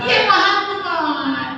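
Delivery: high, slow call of the name; drawn-out calling. Shown as a demonstration. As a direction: stretch the name out as if calling him. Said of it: "Manggil Muhammad siapa?".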